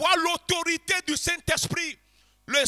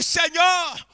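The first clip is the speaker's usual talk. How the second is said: prière ardente qui monte; model prayer, rising. Shown as a demonstration. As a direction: lead them in crying out to the Lord. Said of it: "et dis-lui".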